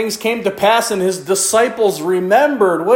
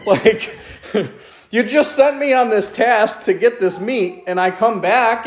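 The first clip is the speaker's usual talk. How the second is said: laughing complaint; 4 semitones higher than usual. Acted.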